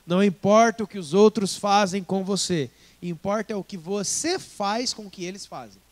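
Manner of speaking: loud preached repeat, você stressed; full preaching force. Shown as a demonstration. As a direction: proclaim the saying to the congregation. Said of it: "repeated motto".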